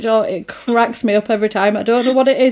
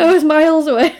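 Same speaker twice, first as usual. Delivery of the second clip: repeating quote; 7 semitones higher, 5 dB louder, faster than usual. Retold or imitated. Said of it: "I wasn't even acting".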